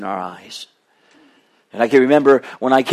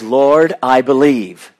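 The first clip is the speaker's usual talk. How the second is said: earnest cry; 5 dB louder, slower than usual. Retold or imitated. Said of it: "It was".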